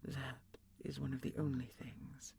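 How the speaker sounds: whispered fearful confession; hushed confession. Acted. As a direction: let the fear slip out in a whisper. Confessing fear softly.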